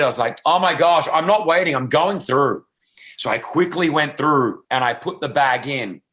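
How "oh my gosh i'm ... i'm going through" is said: mock frustrated, pitched higher; half-hearted put-on annoyance, a bit higher; pretend frustration. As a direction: fake a huff of impatience so the girlfriend won't suspect. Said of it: "I pretended I was, like, frustrated".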